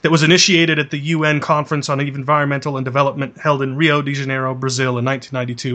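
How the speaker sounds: dramatic booming trailer read; movie trailer narrator. Acted. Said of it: "a movie trailer narrator".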